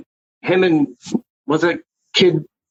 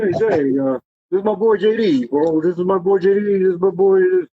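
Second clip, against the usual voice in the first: friend's voice; 3 semitones higher than usual. Retold or imitated. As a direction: echo how his friend talks, barely shifted. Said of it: "You know how he talks".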